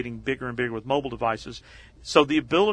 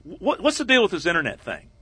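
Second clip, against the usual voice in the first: lightly imitated talk-show host, higher pitch; Letterman's question; 5 semitones higher, 3 dB louder than usual. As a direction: toss out a puzzled host's question, higher. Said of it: "in fact, David says".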